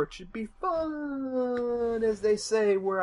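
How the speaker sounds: stretched-out, high put-on Scottish lilt; mock Scottish accent. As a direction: drawl it slowly in a jokey Scottish accent. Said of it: "I don't know what accent that was".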